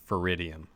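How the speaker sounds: Feridium said as fuh-RID-ee-um; pronunciation of Feridium. Shown as a demonstration. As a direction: stress the second syllable of Feridium, "RID". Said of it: "I think it is pronounced".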